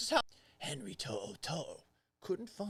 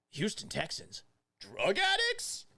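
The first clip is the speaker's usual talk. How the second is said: mock shock; 5 semitones higher than usual. Mock tabloid question.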